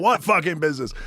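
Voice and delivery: lampoon everyone's same reaction; mock incredulous. Everybody mocked, mid-laugh.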